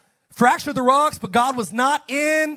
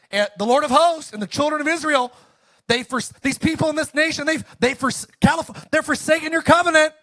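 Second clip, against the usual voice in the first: agitated complaint; 5 semitones higher than usual. Acted. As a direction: pour out the grievances, getting worked up. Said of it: "He's having a low moment".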